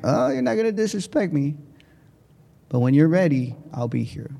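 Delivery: put-on calm a troubled kid with gentle patience; soothing teacher. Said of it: "She had this very soothing way of".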